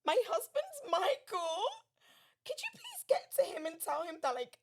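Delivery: retold desperate phone call; urgent plea. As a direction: beg for help, close to tears.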